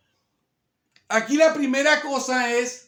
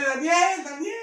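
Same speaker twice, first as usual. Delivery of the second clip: mild mock yell, raised pitch; half-hearted, higher-pitched shout of a name; imitated calling out; 5 semitones higher, slower than usual. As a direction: call his name as if into a pit. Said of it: "y empezó a gritarle".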